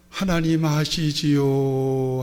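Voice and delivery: a touch of tearful crying out; mock wailing prayer. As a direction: imitate a deacon wailing on her face. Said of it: "그렇게 울부짖더래요".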